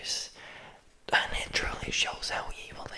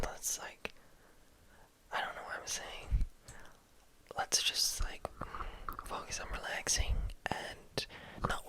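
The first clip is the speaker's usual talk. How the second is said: guided relaxation. Acted. Telling ASMR viewers to relax, slow soothing whisper. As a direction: ease them gently into rest.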